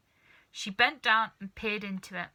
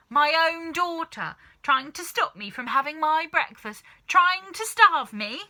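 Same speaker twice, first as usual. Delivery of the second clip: shouted; 8 semitones higher, 9 dB louder than usual. Acted. Grandma shouting at her daughter for siding against her. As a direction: wail it out as betrayed. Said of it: "shouted Grandma".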